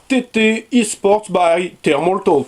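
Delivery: slow, careful put-on English accent. Shown as a demonstration. Naming the keyboard brand for viewers in a mock English accent. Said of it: "j'ai travaillé mon accent anglais".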